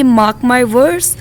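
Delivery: words broken up and stretched for learners; slow teacher demo; very slow model reading. Shown as a demonstration. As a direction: spell the phrase out slowly. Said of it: "तो English में हम कैसे कहेंगे?".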